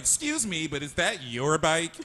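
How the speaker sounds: high, prim excuse me; lightly mocking a prissy busybody; mock prissy lady. Friend mimics the lady scolding a bike thief, high and prim. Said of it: "is she like".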